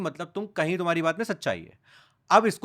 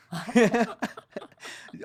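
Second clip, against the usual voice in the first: bursts out laughing; amused burst of laughter; real laugh; 6 semitones higher than usual. Real, not acted. Laughs at funny fan message.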